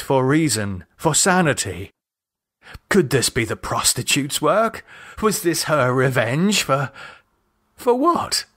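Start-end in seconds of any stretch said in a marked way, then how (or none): 2.9-8.4 a man wondering about the prostitute's revenge, frantic; frantic questioning. Acted. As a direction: let the voice jump in alarm. Captive searching for a reason.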